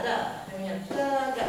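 first "da" stressed and falling, second "da" lighter; stressed-unstressed beat. Shown as a demonstration. Teacher sounding out stressed then unstressed beats on "da". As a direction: lean on the first "da", let the next drop. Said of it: "a stressed, unstressed".

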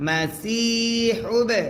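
teacher shows the echoing ব in মাসিহুবে; qalqala on ba. Shown as a demonstration. Tutor shows qalqala on the ব for pupils. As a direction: bounce the ব in মাসিহুবে with a light echo. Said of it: "বায়ে যদি সাকিন হয় কলকলা করতে হয়".

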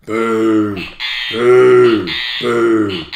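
mock boo. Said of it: "only twice a week".

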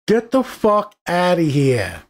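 slow, drawn-out scoff of disbelief; dismissive scoff. Retold or imitated. Fed-up viewer scoffing at Keanu's stunts, slow and dismissive. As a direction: wave it off like nonsense. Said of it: "I was like".

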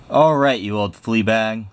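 a touch of a squeak on a tough command; squeaky mouse commander. Acted. The Big Cheese ordering the dog, a light squeaky voice. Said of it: "squeaked the Big Cheese".

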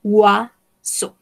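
oiseau as waso, rising; teacher repeats oiseau as waso; model word. Shown as a demonstration. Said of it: "Ça serait".

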